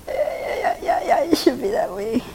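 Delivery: whispering. Real, not acted. Painful massage, breathless whisper.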